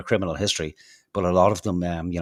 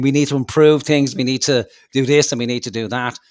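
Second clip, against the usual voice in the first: loud, higher mocking imitation of a politician; mocking quote; 5 semitones higher, 8 dB louder than usual. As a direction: parrot his empty promises loudly. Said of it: "And he's saying".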